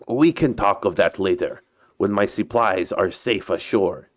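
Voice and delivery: put-on Russian captain's accented English; story character with a put-on Russian accent. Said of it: "uh, my Russian accent".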